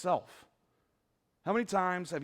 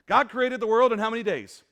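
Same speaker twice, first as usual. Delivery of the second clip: calling out to the congregation; 4 semitones higher, 8 dB louder than usual. Real, not acted. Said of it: "Come on, guys".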